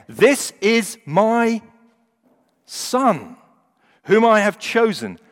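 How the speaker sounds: high, loud, drawn-out declaration; voice of God. Acted. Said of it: "the presence of God himself".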